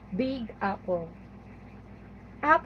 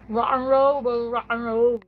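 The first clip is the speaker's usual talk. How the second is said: rocker; 6 dB louder than usual. Pretend. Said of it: "The rocker".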